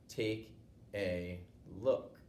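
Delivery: very slow, drawn-out mockery; exaggerated slow. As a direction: spell it out slowly to mock him. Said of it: "You need me to talk a little slower?".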